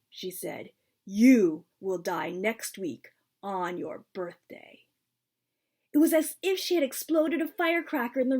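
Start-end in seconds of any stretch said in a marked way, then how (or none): 1.1-4.9 slow grim prophecy. Acted.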